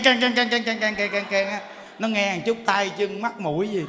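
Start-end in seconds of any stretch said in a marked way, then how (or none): 0.0-1.5 rapid, even "keng" repetitions like a bell; clanging imitation. Shown as a demonstration. Monk imitates what the chanting sounds like, rapid clanging. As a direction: rattle off the clangs without pause. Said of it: "nó gọi keng".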